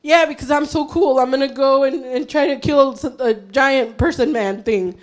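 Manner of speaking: deflated, sarcastic boast; mock bragging. Mock boast after high preaching.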